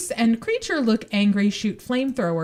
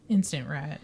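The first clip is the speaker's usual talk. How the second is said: whispered; 6 semitones lower, 6 dB quieter than usual. Real, not acted. Joke aside after rat description.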